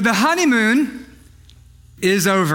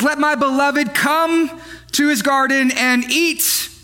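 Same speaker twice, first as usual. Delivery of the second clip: mock-solemn scripture reading; straight face; slower than usual. Shown as a demonstration. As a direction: read it dead straight, holding back a laugh. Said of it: "I'm gonna read it with a straight face".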